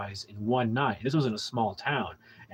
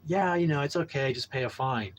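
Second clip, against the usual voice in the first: inviting. Retold or imitated. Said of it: "he was really inviting".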